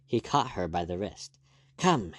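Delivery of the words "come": sharp urgent call; urgent command. A narrator's reading. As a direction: order her to come quickly. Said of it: "he said".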